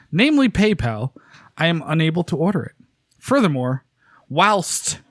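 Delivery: fake British. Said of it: "it's gonna be fake British".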